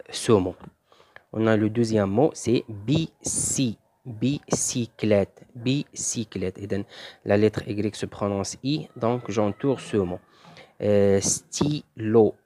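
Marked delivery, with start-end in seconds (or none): 2.7-6.6 slow, syllable by syllable; teacher sounding out a word slowly; slow word modelling. Shown as a demonstration. 11.2-12.3 very slow, split into syllables; sounding the word out slowly; slow word modelling. Shown as a demonstration. Teacher models reading a word.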